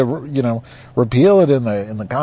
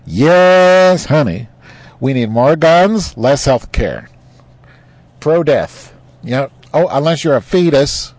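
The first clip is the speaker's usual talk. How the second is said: slow, dim-witted parody; hammed-up idiot voice; mock moron voice; 3 semitones higher, slower than usual. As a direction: draw it out like a proud dimwit. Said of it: "morons in America are like".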